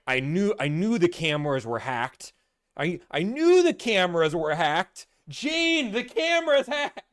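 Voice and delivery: put-on high, loud panicked old man; hammed-up paranoid yelling; mock panic. Salesman freaking out, calling to Gene in high mock panic. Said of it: "freaking out, saying".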